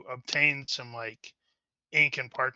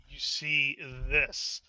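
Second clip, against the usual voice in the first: mock slow reveal; much slower than usual. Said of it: "Why did you say it like".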